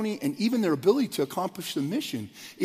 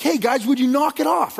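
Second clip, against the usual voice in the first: a mom's raised call, higher and a bit louder; mother shouting at rowdy boys to quit; mom telling the boys off; 7 semitones higher, 4 dB louder than usual. Retold or imitated. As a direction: call the kids to knock it off, pitched up. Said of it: "And you can hear it".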